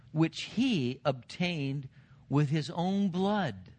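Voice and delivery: slow, weighty Bible reading; scripture reading. Acted. Preacher reads Paul's charge to the elders, slow and emphatic. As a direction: read the verse out deliberately, drawing out each phrase.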